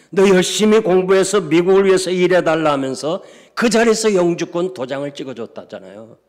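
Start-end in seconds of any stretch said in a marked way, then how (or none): 0.1-2.7 high and loud proclamation; exultant blessing. Retold or imitated. Consul rewarding the honest girl, loud and exultant. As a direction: ring it out triumphantly.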